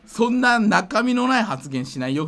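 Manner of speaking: ordinary talk, nothing marked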